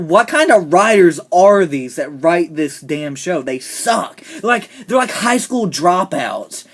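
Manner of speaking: loud, slow, emphatic indignation; exasperated rant. Real, not acted. Fan ranting about the show's writers, loud and exasperated. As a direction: lean hard on each word, fed up.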